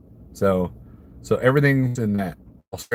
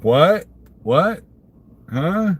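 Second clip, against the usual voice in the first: baffled hick's questions, pitched up sharply; confused Missouri hick; 6 semitones higher, 3 dB louder, much slower than usual. Acted. Imagining himself lost among English accents in England, confused hick. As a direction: play a bewildered hick, voice rising on each word. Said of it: "Sound like that hick from Missouri".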